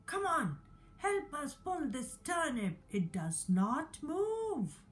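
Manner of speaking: a hint of a dog begging the cat to help; dog calling out. Dog calls to cat for help, lightly voiced. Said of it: "the dog called out to the cat".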